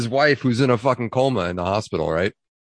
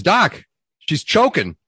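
louder, higher, drawn-out cry for the doctor; alarmed husband; 5 semitones higher, 4 dB louder, slower than usual. Acted. Man rushing out to the doctor about his wife, mock alarm. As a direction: call out in mock alarm to the doc. Panicked man in joke's punchline.

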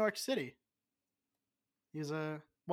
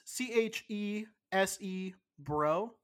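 spelling slowly; 3 semitones higher, slower than usual. Real, not acted. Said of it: "spelling it out".

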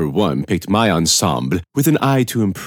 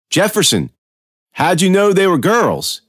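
pressing question; 10 semitones higher than usual. A narrator's reading. Detective presses suspect.

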